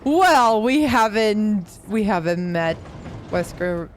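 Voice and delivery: lightly voiced cool villain; Albert Wesker. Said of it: "It's a quote of Albert Wesker".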